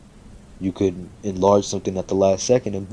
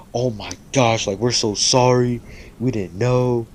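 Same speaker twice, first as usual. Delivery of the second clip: higher-pitched, gushing retold apology; raised voice, imitating an apologetic outburst; mock shocked apology; 4 semitones higher than usual. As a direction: act out friends mortified on hearing the news.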